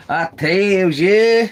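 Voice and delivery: slow, stretched "I tells ya" with "ya" held long; drawn-out folksy repeat. Pretend. Repeating the catchphrase to viewers, slow and stretched. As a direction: savour it like an old-timer's catchphrase.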